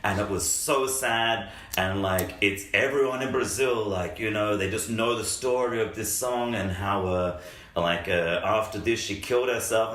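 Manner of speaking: hammed-up protesting coworker; imitating Freddie. Coworker insists the singer died, in a high earnest voice. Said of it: "And he's like".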